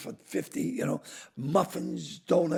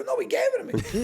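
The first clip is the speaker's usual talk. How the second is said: laughing; 5 dB louder, faster than usual. Retold or imitated. Laughing reply to cop.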